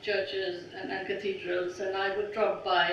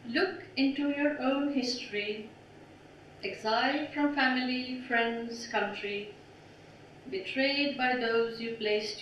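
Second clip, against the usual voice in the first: measured, solemn recital of a prayer-poem; poetry reading; 2 semitones higher than usual. Acted. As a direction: read it as a poem, phrase by phrase with pauses. Recites second poem, Black Swans.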